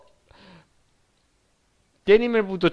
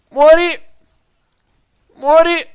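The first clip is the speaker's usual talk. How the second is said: battle cry; 8 semitones higher, 5 dB louder than usual. Real, not acted. Shooting at enemy.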